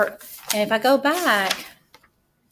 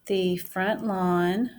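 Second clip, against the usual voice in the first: drawn out, word by word as she writes; teacher dictating her sentence while writing; slow dictation; slower than usual. Shown as a demonstration. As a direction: say it at writing speed for the class.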